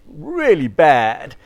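very slow, stretched-out mock verdict; long, drawling reprimand; disapproving doctor. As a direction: echo the doctor's drawn-out disapproval. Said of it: "for someone to say".

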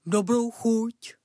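slow, through a mouthful of meat; mouth full. Acted. Dog answers the cat while gobbling meat, mouth full. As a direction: chew the words, mouth stuffed. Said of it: "plnou pusou odpověděl pes".

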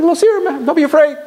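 quoting the rabbi gently. Retold or imitated. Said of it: "boy, my heart went calm".

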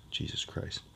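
slurping a drink into the mic; sipping through a straw. Real, not acted. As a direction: slurp from a straw while talking. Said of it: "Sorry for slurping into the mic".

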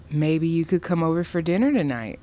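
talking through gritted teeth; forced smile through clenched teeth. Acted. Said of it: "through slightly gritted teeth".

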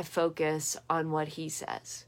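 hushed whisper on he. Shown as a demonstration. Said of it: "on what God says".

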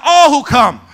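loud, high preacher shout. Shown as a demonstration. Preacher prompting congregation to echo, shouted. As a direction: call it out for them to echo. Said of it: "Somebody shout".

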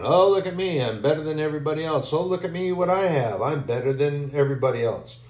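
preen and show off to everyone; a hint of arrogant bragging; boastful. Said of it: "Busy looking down on everyone".

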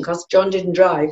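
usual speaking voice

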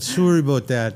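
loud, high Canadian apology; playful Canadian "soory aboot"; mock Canadian accent. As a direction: round the vowels like a hammed-up Canadian. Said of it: "everybody thinks I'm from Canada".

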